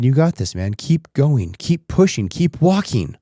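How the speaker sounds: put-on dad cheering his three-year-old up the steep hill. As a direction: push a tired kid up the hill with your voice. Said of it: "I just kept cheering him on".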